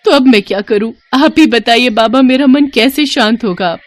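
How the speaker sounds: high-pitched, distressed appeal; desperate plea. Acted. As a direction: beg the holy man for guidance. (बेबस गुहार)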